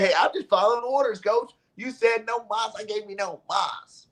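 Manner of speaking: a hint of a cheeky player answering his coach; retold player's reply. Player answering his coach about following orders, lightly voiced and quick. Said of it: "He said, he said".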